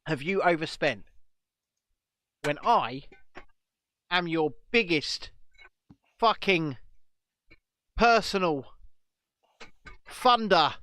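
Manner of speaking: slow, mock-outraged drinker ranting at Red Bull. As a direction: hammer each word, building to a laugh. Mock rant as Red Bull funder.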